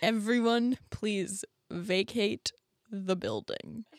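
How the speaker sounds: slow, spaced-out evacuation notice. Acted. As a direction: own voice slowed into an announcement. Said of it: "She's just talking slower".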